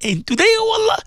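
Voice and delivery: high, pleading cry to God; imploring wail with stretched-out words; tearful prayer. Real, not acted. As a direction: plead through real tears, with pauses to gather yourself. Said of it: "I say this in tears".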